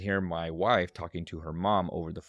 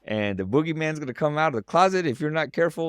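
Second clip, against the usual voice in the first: higher, louder, hammed-up boogeyman threat; mock spooky warning; 7 semitones higher, 6 dB louder than usual. Father warns stalling son about the boogeyman, mock scary. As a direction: tease him off to bed with a spooky warning.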